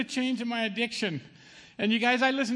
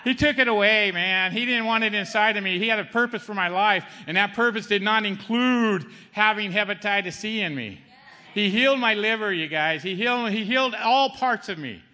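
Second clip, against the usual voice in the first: louder, fervent preaching voice; 3 dB louder than usual. Acted. Healed man testifying to the congregation, fervent preaching. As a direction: proclaim the healing boldly.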